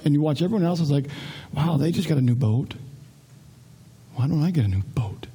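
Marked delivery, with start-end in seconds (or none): 1.5-5.3 low, softer mock grumble; understated put-on complaint; complaining. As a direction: grumble enviously as if to yourself. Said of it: "just, just complain".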